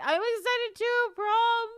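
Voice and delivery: high, loud burst of excitement; excited. Real, not acted. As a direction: squeal it with real excitement.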